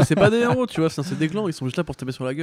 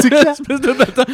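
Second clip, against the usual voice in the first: angry; 12 semitones higher, 9 dB louder than usual. Acted. Voicing angry character.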